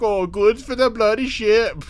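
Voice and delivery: hammed-up Irish scorn; mock Irish woman. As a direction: toss it off in stage Irish. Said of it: "And she's like".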